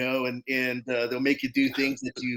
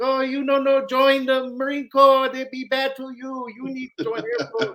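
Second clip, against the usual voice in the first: very high, put-on Thai accent; 12 semitones higher than usual. Retelling what mom said about joining the Marines: imitating mom's Thai accent. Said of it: "she has her little accent".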